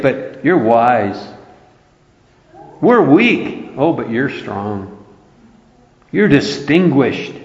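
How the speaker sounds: mild sarcasm in emphatic contrasts; understated preacher's sarcasm, swinging between the contrasts; sarcastic. Retold or imitated. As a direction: set each side against the other with a touch of sarcasm. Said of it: "goes back to some sarcasm".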